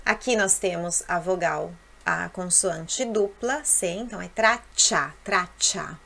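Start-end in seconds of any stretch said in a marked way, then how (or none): 3.6-6.0 "traccia" with a long held double "cc" before the a; strong double c. Shown as a demonstration. Teacher to students, showing "traccia" with a long double "cc". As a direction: stretch the "cc" in "traccia".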